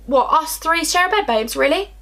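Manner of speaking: high-pitched, incredulous questioning. Retold or imitated. Girl challenging best friend over sharing the bed, incredulous.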